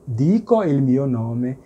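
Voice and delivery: slow, each word set apart; teacher reading a model phrase slowly; slow careful French-Italian example. Shown as a demonstration. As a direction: spell the phrase out for a learner. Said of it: "É".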